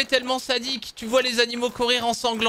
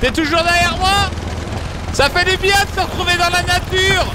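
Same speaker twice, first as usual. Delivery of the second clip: mock enthusiasm; 7 semitones higher, 4 dB louder than usual. Mock nature-lover enthusiasm.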